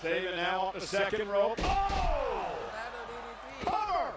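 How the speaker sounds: excited shouting. Real, not acted. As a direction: yell the action as it happens. Flurry of moves called live.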